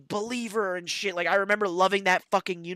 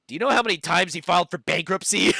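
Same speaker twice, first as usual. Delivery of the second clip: laughing dad quote; 7 dB louder than usual. Retold or imitated. Dad retorting in car story.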